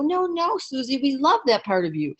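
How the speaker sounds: high-pitched opening, easing down as they reassure; retold reassuring protest. Girls hug their crying friend at the party, imitated reassurance.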